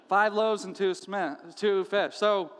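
mock the tiny supply, a hint of snark; smart aleck. A disciple mocking Jesus's plan, lightly snarky. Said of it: "smart aleck comment".

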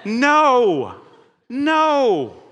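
loud, mock-anguished groan; hammed-up cry of dismay. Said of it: "Jesus is like".

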